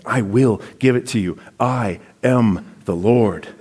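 measured restatement. Shown as a demonstration. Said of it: "I love those bookends".

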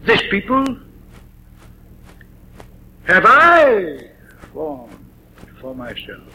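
weight on "have I", trailing off; stress on have I. Shown as a demonstration. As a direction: push "have I", then fade. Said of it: "the emphasis falls on a different word".

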